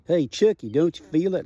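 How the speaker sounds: Paul calls out, half alarmed; retold call. Paul calls out during the quake.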